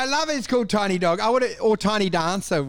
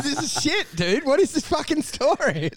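higher-pitched mock heckle; mock exasperation; 7 semitones higher than usual. Interrupting someone's story mid-convo, mock exasperated. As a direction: play an impatient listener complaining.

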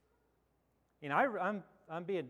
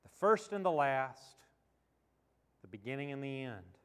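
measured reading with long pauses between phrases; Scripture reading; 2 semitones lower than usual. Acted. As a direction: read the verses solemnly, letting each phrase stand. Reads scripture aloud to congregation.

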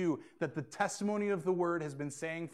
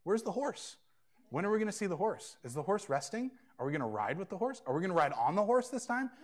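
put-on eager toddler; 5 semitones higher than usual. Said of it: "She continually said".

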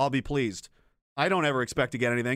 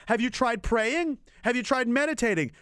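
mocking advice; 7 semitones higher than usual. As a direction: drag out the advice to make it sound silly. Mocking advice to wheelchair user.

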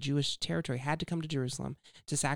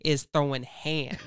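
laughing; 4 dB louder than usual. Real, not acted. Joking about passage title.

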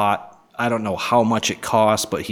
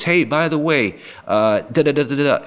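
chatty afterthought; 5 semitones higher than usual. Retold or imitated. Imitating a parting chat.

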